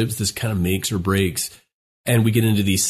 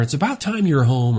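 harsh startup; 5 semitones higher than usual. Shown as a demonstration. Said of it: "our tone goes up".

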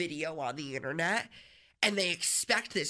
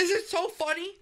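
mock excited; 9 semitones higher, 4 dB louder than usual. Laughing coworker asks.

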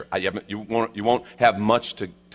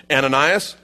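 calling out; 4 semitones higher, 6 dB louder than usual. Acted. Acting the Lord calling Ananias.

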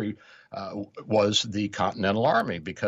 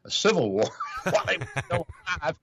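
laughing mid-quote; 9 semitones higher, faster than usual. Retold or imitated. Mocking critics' quote, laughing.

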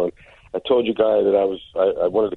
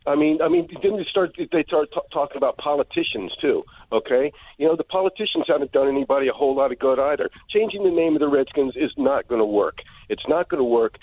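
worked-up, higher-pitched insistence; angry; 5 semitones higher than usual. Real, not acted. Caller objects to Redskins name change on air, angry insistence. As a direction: argue it heatedly, voice raised in pitch. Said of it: "So why are you so angry?".

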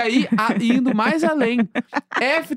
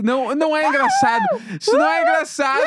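stifled giggles; 12 semitones higher than usual. Real, not acted. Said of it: "Para de rir".

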